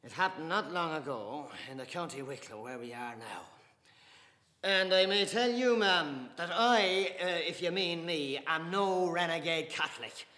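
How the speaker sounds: loud, high, swelling pride; proud defiance. Acted. Mr Casey defending his Catholic faith to Dante, proud and loud.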